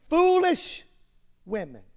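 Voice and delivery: high, pinched take on Foolish; mock foolish-woman voice. Shown as a demonstration. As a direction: caricature of the misquoted line. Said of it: "he did not say she was foolish".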